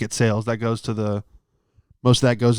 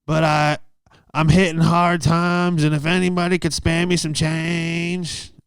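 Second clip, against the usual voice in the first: higher, slow, apologetic pleading voice; subway panhandler; 5 semitones higher than usual. Retold or imitated. Panhandler addressing subway riders, higher slow plea. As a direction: plead slowly for spare change, pitched up. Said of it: "the other guy gets on".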